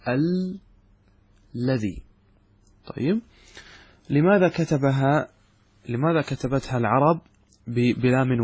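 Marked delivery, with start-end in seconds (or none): 0.1-2.0 الذي said very slowly, the doubled lam lingered on; drawn-out alladhi. Shown as a demonstration. Teacher stretching الذي to prove it is spoken with two lams. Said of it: "مع أننا ننطقها بلامين".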